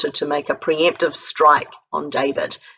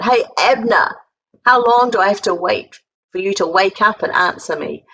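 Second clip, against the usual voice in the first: mild mock yell, raised pitch, mocking; yelling across the hill; 4 semitones higher, 3 dB louder than usual. David taunting Abner's sleeping army from the hilltop, mild mocking yell. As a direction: call out to wake the sleeping army, teasing. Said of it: "He yells out".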